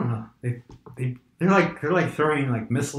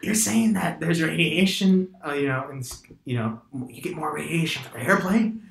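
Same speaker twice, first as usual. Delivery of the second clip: lightly voiced grumpy old man; 4 semitones higher than usual. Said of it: "I'm trying to do old man voice".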